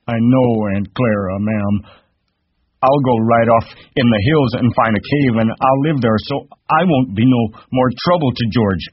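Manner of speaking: high, distressed simpleton's plea; moaning with grief. Acted. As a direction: wail the promise in misery. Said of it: "Lenny moaned with grief".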